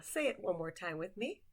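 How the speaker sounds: normal talking voice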